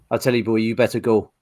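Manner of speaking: quick, low mock-Welsh voice; bad Welsh accent. Pub brawler warning a stranger off, bad Welsh accent. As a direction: put on a shaky attempt at Welsh. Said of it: "Where the fuck was he from?".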